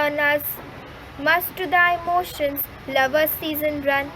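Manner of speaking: measured, emphatic recitation in short phrases; poem recitation. Acted. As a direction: recite it evenly, pausing firmly between phrases.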